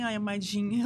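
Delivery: gentle coaxing. Retold or imitated. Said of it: "com jeitinho assim".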